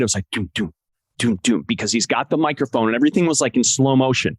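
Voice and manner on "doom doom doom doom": low, spaced heartbeat thuds; imitated heartbeat. Recalling the big moment's heartbeat in his head, imitated thuds. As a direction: voice a heartbeat thudding in your head. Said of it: "like a heartbeat was playing in my head".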